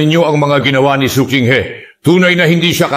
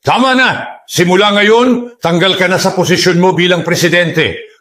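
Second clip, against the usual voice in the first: stern command. Acted. Elder dismisses her from post.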